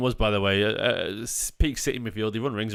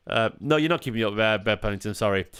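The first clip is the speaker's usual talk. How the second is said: talking through a yawn; words stretched by a yawn; 2 semitones lower than usual. Real, not acted. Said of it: "I'm sorry about the yawning".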